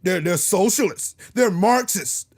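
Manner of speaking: low, soft, mock smarmy voice; mocking politician. Mocking Republicans who smile in voters' faces. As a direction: drone look look look like a smug politician. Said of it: "smile in your face".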